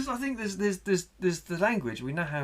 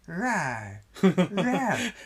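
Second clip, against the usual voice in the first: a growing mock dinosaur roar, the second higher and louder with a laugh; T-Rex roar; 5 semitones higher, 4 dB louder than usual. Spielberg shows off his T-Rex roar. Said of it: "listen to him".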